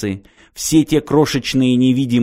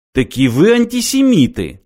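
high, louder put-on accent; dully repeated taunt; 8 semitones higher, 4 dB louder than usual. A narrator's reading. Lad repeats his accusation to the travellers, dull stubborn taunt. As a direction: repeat it like a stubborn dimwit, pitched up. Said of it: "тупо повторил парень".

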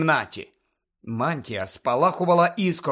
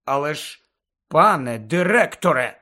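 restrained objection. Acted. Pupil addresses headmaster without seeming argumentative, restrained objection. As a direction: object politely, holding back the argument. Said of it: "докладав геройських зусиль, аби не здавалося".

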